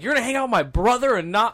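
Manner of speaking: high, loud mock indignation; retold upset girlfriend. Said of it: "she wasn't really pissed, but she was just, like, upset".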